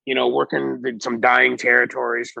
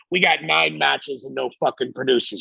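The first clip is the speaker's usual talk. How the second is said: retold rant climbing higher in pitch; mock exasperated boss; 5 semitones higher than usual. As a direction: build into an imitated boss's tirade. Acted boss's rant about matches.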